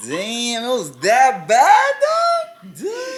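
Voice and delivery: high, loud, drawn-out disbelief; incredulous. Real, not acted. Host reacting to botched audition, incredulous. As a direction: squeal it out, stretched and amazed.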